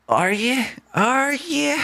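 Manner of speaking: mock falsetto "Are you?"; mocking high question.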